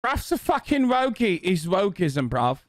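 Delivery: high, hammed-up British boomer rant; mock angry boomer. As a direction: sneer it like a grumpy old man.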